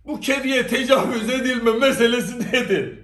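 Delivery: asked through real laughter; can't hold back a laugh at the absurd question. Real, not acted. Laughing as he poses the question to viewers.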